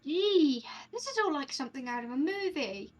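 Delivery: lightly put-on British character voice; coy eyewitness with a hint of British; British accent. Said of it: "everyone else is British".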